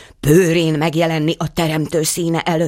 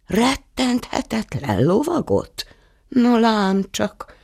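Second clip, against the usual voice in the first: much higher, slow, amused disbelief; mock surprise; 10 semitones higher, slower than usual. A narrator's reading. Saint Peter teases the boastful knight, amused disbelief. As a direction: repeat his title as if never heard.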